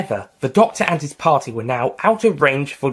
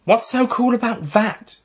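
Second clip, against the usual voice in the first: high, slow, scoffing question; unimpressed; 11 semitones higher than usual. A narrator's reading. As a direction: scoff at it like a bored kid. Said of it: "wasn't so impressed".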